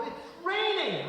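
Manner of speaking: put-on high, slow whiny kid cry; kids whining. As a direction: whine it like a kid caught in the rain.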